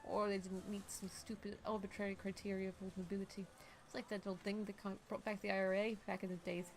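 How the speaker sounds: even, restrained character reading; game dialogue reading. Acted.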